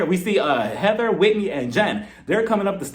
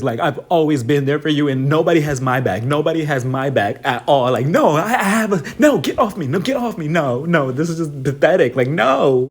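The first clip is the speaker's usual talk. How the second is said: mock angry rant; 4 semitones lower, 4 dB louder than usual. Voicing Lisa's bathroom rant.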